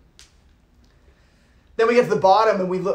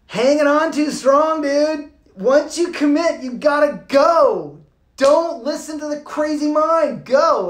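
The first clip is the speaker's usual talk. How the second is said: higher, louder, slow emphatic push; urging; 5 semitones higher, 3 dB louder, slower than usual. Real, not acted. Teller urging listeners to commit, loud and emphatic. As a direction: drive the point home.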